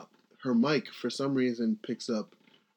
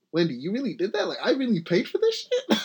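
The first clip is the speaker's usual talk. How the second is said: disgusted audience member; 8 semitones higher, faster than usual. Retold or imitated. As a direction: play the appalled viewer. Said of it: "she looked like, ugh".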